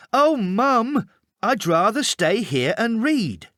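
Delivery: put-on high, pleading boy's voice; whiny child. A narrator's reading. Boy begs his mum to let him read, whining high.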